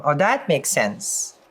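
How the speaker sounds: dry sarcastic aside. Acted. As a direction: say it with heavy sarcasm. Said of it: "I'm being sarcastic with that one".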